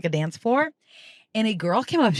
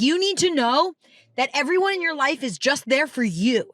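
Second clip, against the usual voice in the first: earnest stranger; 5 semitones higher than usual. Retold or imitated. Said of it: "she was like".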